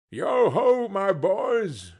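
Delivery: hearty, loud, cheerful boss; rally the lads joyfully; jovial Fezziwig call. A narrator's reading. Fezziwig calling out.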